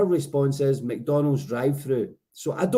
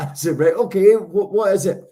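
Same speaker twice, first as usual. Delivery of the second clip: plain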